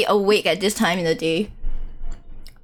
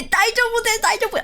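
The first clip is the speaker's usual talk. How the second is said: anime character voice; 11 semitones higher, faster than usual. Pretend. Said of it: "I want to hear him say".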